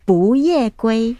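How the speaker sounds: 不夜归 slowly, each syllable's tone distinct; teacher's careful 不夜归 with 不 rising; correct tone model. Shown as a demonstration. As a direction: model 不夜归 slowly as second, fourth, first tone. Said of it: "it's just the tone".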